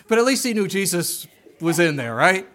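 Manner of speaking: loud laughing through the words. Real, not acted. Preacher still laughing with congregation after the joke, loud laughing. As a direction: talk through real laughter.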